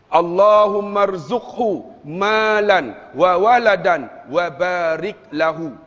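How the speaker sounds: slow, measured Arabic recitation; prayer recitation. Shown as a demonstration. Preacher teaching parents a prayer, slow model recitation. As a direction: recite each phrase slowly and drawn out. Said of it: "Boleh ikut saya tak?".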